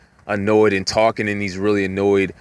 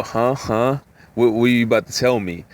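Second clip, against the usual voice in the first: eager curious listener. Retold or imitated. Eager listener hooked by gossip.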